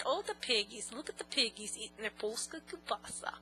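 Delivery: soft, quiet teasing bandleader voice; mother teasing her sons in a soft bandleader voice; an old bandleader's voice. Retold or imitated. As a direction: coo at the boys like an old bandleader. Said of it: "I kept to talking like Lawrence Welk".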